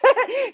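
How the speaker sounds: short laugh. Real, not acted. Laughs at own fretting.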